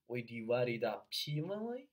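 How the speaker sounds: "we divide it up evenly" with the p of up joined onto evenly as "pevenly"; over-linking mistake. Shown as a demonstration. Coach showing mistake two, over-linked p. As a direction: sound the p and glue it to "evenly". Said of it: "错误二的话就是".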